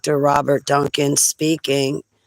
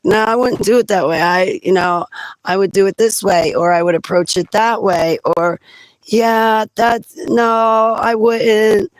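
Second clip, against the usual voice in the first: mocking know-it-all; 5 semitones higher than usual. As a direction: lightly imitate a smug corrector. Mocking Robert Duncan's know-it-all corrections.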